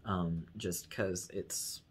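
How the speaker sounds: slow, soft, low voice; relaxed, slow at-home voice; natural house voice. Shown as a demonstration. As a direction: let it come out low and unhurried. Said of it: "it's how my voice wants to come out".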